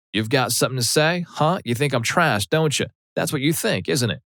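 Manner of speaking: high, mocking Southern mother taunting him; hostile mother. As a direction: needle him like a spiteful mother. Mother confronting him angrily.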